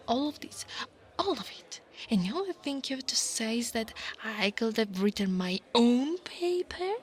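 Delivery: indignant disbelief, pitch leaping up; affronted, incredulous questioning. Acted. Incredulous at the listener's takeaway.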